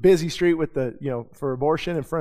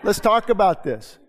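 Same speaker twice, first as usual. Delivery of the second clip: half-laughing mock challenge, a bit higher; playful mock tough guy with a laugh; mock confrontational; 3 semitones higher, 4 dB louder than usual. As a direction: tease the old hot-headed self calling a driver out. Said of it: "the old self wanted to say".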